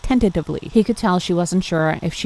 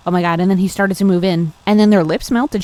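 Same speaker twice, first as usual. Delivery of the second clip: faster and louder, building thrill; excited; 5 dB louder, faster than usual. Real, not acted. Reader thrilled as the kiss starts, louder and faster. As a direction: rush it out with glee.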